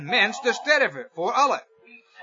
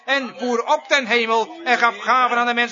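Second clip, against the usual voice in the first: rousing pulpit proclamation, phrase piled on phrase; forceful preaching. Real, not acted. Preacher proclaiming the risen victor to the congregation, forceful preaching. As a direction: drive each victory home with real fervour.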